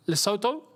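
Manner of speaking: "Lesotho" as lih-SOH-toh, rising; questioning pronunciation. Shown as a demonstration. Streamer unsure how it is said, questioning "Lesotho", lih-SOH-toh. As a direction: ask "Lesotho" with two long OH sounds. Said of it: "only saying it as it's spelled".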